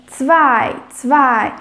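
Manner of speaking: zwei with a clear "ts" at the start and a V sound, "tsvai"; teaching pronunciation. Shown as a demonstration. Teacher models zwei, Z as "ts", for learners. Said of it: "o Z tem som de T S".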